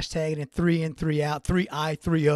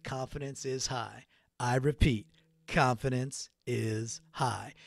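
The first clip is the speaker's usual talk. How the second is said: hushed, slow movie-quote delivery; a mock mission-control calm read, dragged out; American Pie quote; 3 semitones lower, 5 dB quieter, slower than usual. Dad on his podcast quoting American Pie, hushed and slow. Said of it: "and he goes".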